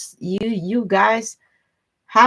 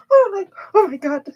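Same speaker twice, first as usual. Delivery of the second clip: amazed exclamation; 12 semitones higher, 7 dB louder, faster than usual. Real, not acted. Reacting to her own story.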